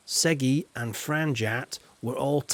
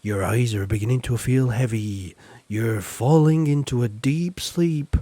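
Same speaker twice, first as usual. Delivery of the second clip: mock hypnotist. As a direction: lull the viewers like a stage hypnotist, tongue in cheek. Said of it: "I'd be a good hypnotist, wouldn't I".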